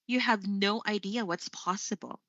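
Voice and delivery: "possible" falling at the end; quoted statement, voice settling down on "possible"; falling intonation. Shown as a demonstration. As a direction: end firmly downward on "possible". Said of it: "that's how you would use falling intonation".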